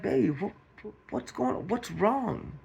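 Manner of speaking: high, soft concerned questioning; worried partner. Acted. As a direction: gently plead to know what's wrong, pitched high. Acting worried partner of sobbing wife.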